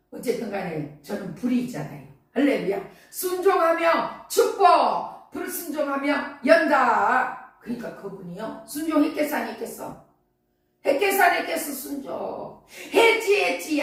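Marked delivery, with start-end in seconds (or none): 3.1-7.6 preached proclamation. Acted. Preacher declaring a slogan. 10.8-13.8 rousing call and answer. Acted.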